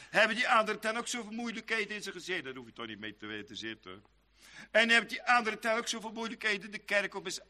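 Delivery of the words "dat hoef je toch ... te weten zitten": quiet, quick shrug of a reply; a soft, offhand "never mind that"; dismissive brush-off. Retold or imitated. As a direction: wave the question away softly and quickly. Dismissive reply to imagined objection.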